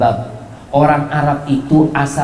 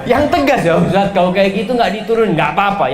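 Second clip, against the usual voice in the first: firm haggling; 5 semitones higher than usual. Shown as a demonstration.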